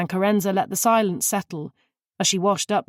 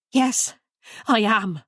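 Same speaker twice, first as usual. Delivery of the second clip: a sharp, higher retort; snapped; 3 semitones higher, slower than usual. A narrator's reading. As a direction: bite back at her friend. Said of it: "Alice snapped".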